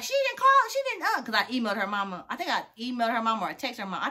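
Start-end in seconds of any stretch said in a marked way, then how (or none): 0.0-1.2 high, stammering mock of the ex; whiny ex. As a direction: sputter it like the ex, much higher. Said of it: "she was like".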